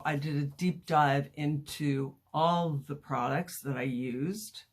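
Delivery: lisping, like cotton in the mouth; slight lisp. Real, not acted. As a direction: talk with a light lisp from a mouth appliance. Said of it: "I'm kinda lisping here".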